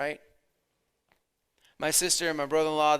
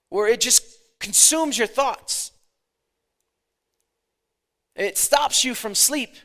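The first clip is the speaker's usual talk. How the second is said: raised, insistent preacher's question; pressing sermon delivery; preaching; 6 semitones higher, 7 dB louder than usual. Acted. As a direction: preach it out higher to the congregation. Preaches with force.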